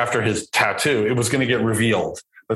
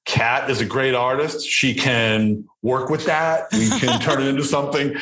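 straight face; 2 semitones higher than usual. Retold or imitated. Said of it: "trying to keep a straight face".

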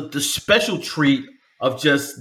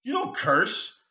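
laughing mock disbelief; 11 semitones higher than usual. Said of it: "it's just like".

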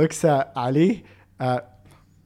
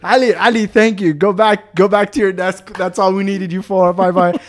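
raised, hurried-away thanks; happy dismissal; 3 semitones higher than usual. Retold or imitated. Speaker sends Ali back to his desk, happy and relieved. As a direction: gratefully shoo someone off. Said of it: "I'm so happy".

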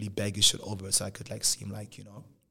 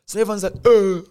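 shocked gasp; 8 semitones higher, 11 dB louder than usual. Retold or imitated. Crowd gasps at slap.

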